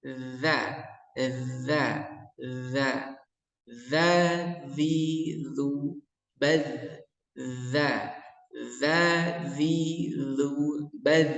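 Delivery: za and zi as thin dzal, with the tongue tip on the upper teeth; thin dzal drill. Shown as a demonstration. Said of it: "Seperti ini".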